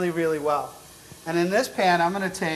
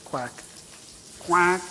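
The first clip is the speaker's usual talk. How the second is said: duck impression. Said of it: "Do your best duck impression".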